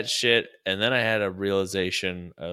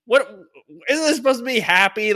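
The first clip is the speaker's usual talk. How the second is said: mock exasperated outburst; 10 semitones higher, 4 dB louder than usual. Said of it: "I'm like".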